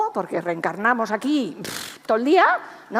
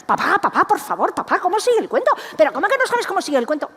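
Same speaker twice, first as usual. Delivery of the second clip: put-on pleading children; 8 semitones higher, 5 dB louder, faster than usual. Six children begging father.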